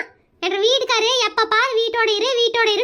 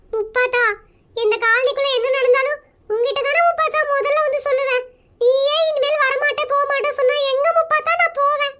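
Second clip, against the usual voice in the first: fake crying. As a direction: act forsaken and close to tears. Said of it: "முதல்ல அழுகுறது நிறுத்து".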